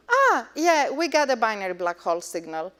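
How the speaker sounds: acted-out blasé reaction; casual nonchalance. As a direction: shrug it off as routine, rattled off quickly. Acting out a routine, unfazed reaction.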